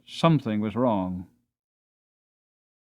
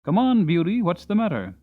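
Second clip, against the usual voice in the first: higher, louder coaxing call; coaxing groom; 6 semitones higher, 4 dB louder than usual. Acted. John leading his horse by the head, raised coaxing voice. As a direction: coax the horse forward, puzzled.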